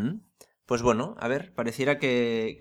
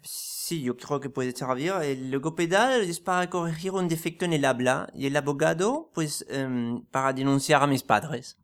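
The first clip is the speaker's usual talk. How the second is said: put-on French accent; 2 semitones higher than usual. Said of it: "pero es que usted no es francés".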